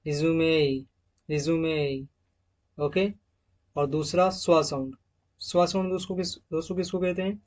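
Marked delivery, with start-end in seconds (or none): 0.1-2.0 रिज्यूमे with the final e said as a clear ay; example word demo. Shown as a demonstration. Teacher showing students the final ay sound in a word. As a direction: stretch the last ay of रिज्यूमे. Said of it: "यहाँ पर ए का sound निकलेगा".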